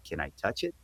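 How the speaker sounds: put-on hushed retelling of a kid's question; imitating curious kids. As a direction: quietly mimic a child asking to touch. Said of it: "my kids were going".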